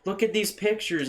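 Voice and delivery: imitating a drunk, excited car owner; mock drunk bragging. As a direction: gush like a drunk showing off. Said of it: "she's just pissed drunk".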